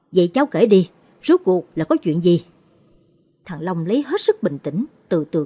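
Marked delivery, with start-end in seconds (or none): 0.1-2.4 pressing question. Acted. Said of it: "Chú Mạnh hỏi".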